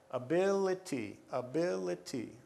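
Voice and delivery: "Ability" stressed on BIL; stress on second syllable. Shown as a demonstration. Teacher demonstrating the rule, stressing BIL in "ability". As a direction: lean on BIL each time in "ability". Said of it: "that's where the stress is".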